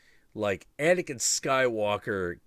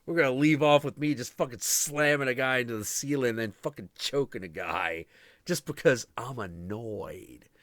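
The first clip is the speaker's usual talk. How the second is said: a hint of an excitable Vader, louder; mock Vader; 4 semitones higher, 5 dB louder than usual. Voicing Vader who refuses to stop, lightly mocking. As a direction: play Vader as a gleeful bully. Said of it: "He's like".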